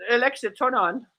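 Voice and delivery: nice, measured request to a gadget. Shown as a demonstration. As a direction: ask it nicely, without shouting. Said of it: "Let me say it the nice way".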